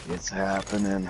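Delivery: slow, dazed murmur; stoned friend. Retold or imitated. Stoned friend on the couch, slow spaced-out delivery. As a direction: say it slowly, as if tripping.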